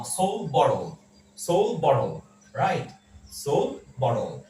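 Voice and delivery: "সোল বটল" with no d after l; silent d. Shown as a demonstration. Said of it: "সোল্ড বটল না বলে আমরা বলবো". ("সোল্ড" এর ড বাদ দিয়ে "সোল বটল")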